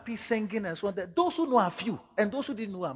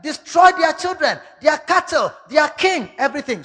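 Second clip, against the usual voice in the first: loud, high commanding shout; loud divine command; God's command; 9 semitones higher, 11 dB louder than usual. Acted. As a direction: thunder the order to destroy. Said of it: "He said".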